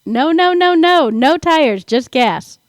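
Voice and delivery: high, loud cartoon character read; cartoony voice. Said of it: "That had kind of a cartoony feel to it".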